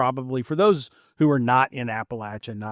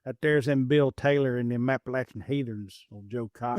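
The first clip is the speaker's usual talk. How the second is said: hillbilly home talk. Pretend. Host greeting his Kentucky guests in a hammed-up Appalachian accent. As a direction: lay on the Kentucky hillbilly twang. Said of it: "I lapse back into home talk".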